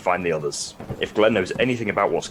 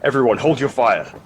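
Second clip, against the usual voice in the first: firm raised order to the troops; loud command; 4 semitones higher, 5 dB louder than usual. Acted. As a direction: call it out over the squad. Commanding soldiers to stop shooting.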